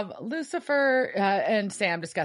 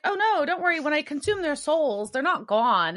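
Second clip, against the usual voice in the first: light mock-sweet voice pitched higher; a sing-song fake-innocent goddess excuse; imitating Amara; 7 semitones higher than usual. S1 voices Amara reassuring Sam.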